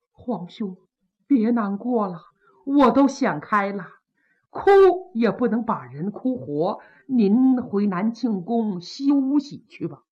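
a mild sad plea to her brother; grieving princess. Acted. Princess Chai gently urges brother.

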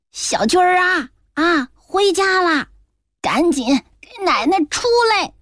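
a mild angry call toward the door. A narrator's reading. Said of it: "气冲冲地在诊室的门口喊".

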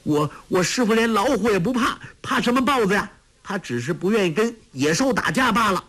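put-on a flustered boy tripping over his words; a hint of stammering. A narrator's reading. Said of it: "结结巴巴地说".

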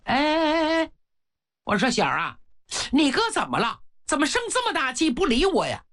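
put-on high, fast old mother's voice; a fussing old witch, mildly voiced. A narrator's reading. The witch mother asks her younger son why his brother stormed off, high and fussing.

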